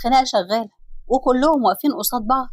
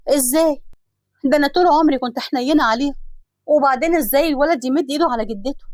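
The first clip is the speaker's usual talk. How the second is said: higher, pained asking how it came to this; shocked disbelief; 3 semitones higher than usual. Acted. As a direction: reel from betrayal, bewildered.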